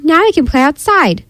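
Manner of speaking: high-pitched, eager storybook voice; excited cry. A narrator's reading. Froggy tells friends they can go out, eager high cry. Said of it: "cried Froggy".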